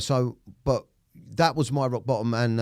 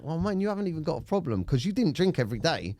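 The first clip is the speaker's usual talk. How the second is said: mocking his own doubting voice, pitched much higher; silly inner voice; 8 semitones higher than usual. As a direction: sneer it like a nagging little voice in your head. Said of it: "that silly voice in my head that's like".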